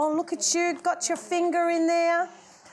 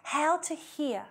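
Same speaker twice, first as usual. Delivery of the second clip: softly, then a breathy whisper; secret-sharing whisper; 6 dB quieter, slower than usual. Shown as a demonstration. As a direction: drop to a hushed whisper on God's voice. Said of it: "Did you hear that?".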